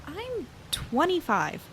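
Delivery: high, slow, offended; indignant. Acted. Telling the stranger her age, slow indignant disbelief. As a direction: drag it out in disbelief. Offended at being called young.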